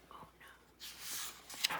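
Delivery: a sharp gasp, then a whispered oh no; storyteller whispers a worried aside to the children. A narrator's reading. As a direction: breathe out the dismay in a whisper. Narrator gasps at the news.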